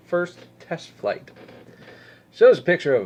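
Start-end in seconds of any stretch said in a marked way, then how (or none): 0.1-1.3 sarcastic slow repeat; drawn-out mocking repeat; mock emphasis. Real, not acted.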